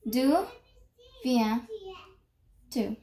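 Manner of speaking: "D'où" then a pause, then "viens-tu" falling; slow French model. Shown as a demonstration. Teacher repeats "D'où viens-tu" slowly for copying. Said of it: "Over here".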